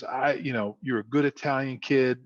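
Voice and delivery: lightly voiced South Philly father; South Philly dad. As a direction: let a South Philly accent creep in. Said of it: "You can hear the accent starting to come out".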